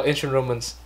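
ancient Romans said slowly, word by word; slow and clear. Shown as a demonstration. Teacher slowly repeating the words the student blurred. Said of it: "Ba từ cuối em không nghe thấy".

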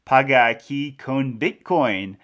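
slow, careful Spanish accent. Shown as a demonstration. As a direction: read "Paga aquí con Bitcoin" in a self-conscious Spanish accent. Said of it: "my Spanish accent is terrible".

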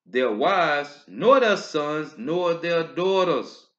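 drawn-out solemn scripture emphasis; slow emphatic reading. Acted. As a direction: hammer home each word of the list slowly.

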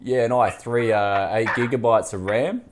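put-on laying on a thick Bogan accent; tough Bogan accent. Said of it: "I'm gonna put on a tough Bogan accent".

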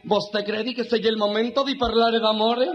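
slow, hurt Italian punchline; mock Italian accent. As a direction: draw it out like a comic Italian. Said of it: "Se me queda así el italiano".

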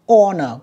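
"Honor" with the H left silent. Shown as a demonstration. Teacher showing pupils a mute letter, silent H in "Honor". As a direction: start "Honor" straight on the vowel. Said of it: "cũng không đọc nha".

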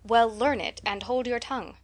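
curt stern reply; brisk, impatient scolding; short, curt. Acted. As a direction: cut her off shortly. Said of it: "said Marilla shortly".

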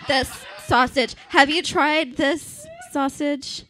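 talking through a mouthful; words round a bite of food; mouth full. Retold or imitated. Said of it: "with my mouth full".

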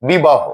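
বিবাহ ending in a clear "ho"; pronunciation demo. Shown as a demonstration. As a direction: say বিবাহ as "bibaho", falling at the end. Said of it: "হো হয়ে গেছে".

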